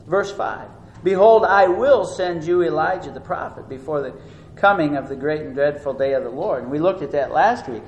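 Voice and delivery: ordinary talk, nothing marked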